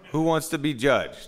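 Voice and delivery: high, loud rhetorical question; mock-indignant outcry; comic protest.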